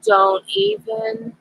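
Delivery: scolding the cat. Real, not acted.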